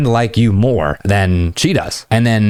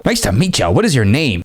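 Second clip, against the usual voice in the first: mock over-polite greeting, pitched up; cringe introduction; 3 semitones higher than usual. Shown as a demonstration. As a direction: parody an awkward beta-male hello. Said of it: "No, cringe. Cringe beta male".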